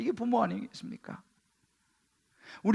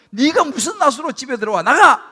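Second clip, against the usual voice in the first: loud, higher furious rebuke; angry brother; 4 semitones higher, 13 dB louder than usual. Retold or imitated. Older brother shouting at the returning prodigal, furious. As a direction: throw him out, shouting. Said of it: "라고 말하지 않겠습니까".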